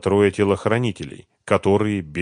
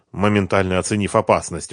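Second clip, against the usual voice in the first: plain reading voice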